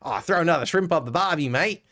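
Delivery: quick, lightly hammed Aussie cliche; mock tourist cliche. Mimicking what foreigners say about Aussies, mock cliche. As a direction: toss off the tired line in mock. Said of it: "somehow became the go-to".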